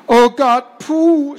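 loud, high huffed exclamation; puffing. A narrator's reading. Girl freed from her gag, puffing. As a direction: puff it out high. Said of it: "schnaufte Gerti".

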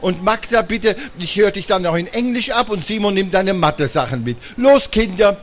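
bossy mom voice. Acted. Magda imitating Mama.

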